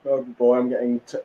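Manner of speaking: talking through a yawn; mid-yawn, sleepy words. Real, not acted. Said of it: "yawning again".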